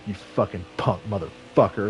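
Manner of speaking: imitated low, seething insult; mock-angry low curse; The Rock, pissed off. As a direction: play a furious wrestler cursing low at a rival. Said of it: "The Rock was pissed off".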